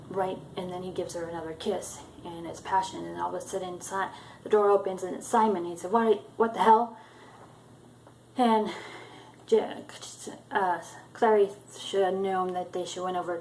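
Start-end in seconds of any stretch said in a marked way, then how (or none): 5.9-7.0 loud, higher, shocked what the hell; startled outrage. Retold or imitated. Simon opens the door on the kissing pair, loud and outraged. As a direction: burst out at the couple caught kissing.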